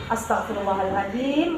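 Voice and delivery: murmured softly under the breath; soft istighfar. Shown as a demonstration. Mother calming herself while her child cries, softly murmured. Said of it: "Langsung istighfar".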